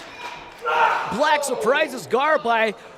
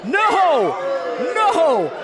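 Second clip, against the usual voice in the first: excited shout; 3 semitones higher than usual. Real, not acted. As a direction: yell it at the near fall. Near fall calls.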